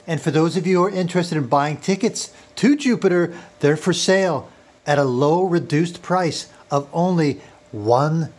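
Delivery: mock South African accent, measured patter; South African fake voice. Faux Elon Musk confiding in viewers about his break-in, fake South African accent. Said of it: "in my sexy South African fake voice".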